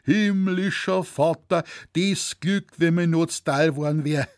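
put-on old man aching to join the hunt; longing old hunter. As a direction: Zecherl dreaming of the wolf hunt.

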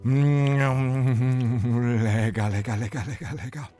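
high, loud greedy troll voice; delighted little troll. Acted. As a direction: gobble and rave about it. Troll Owe devours porridge.

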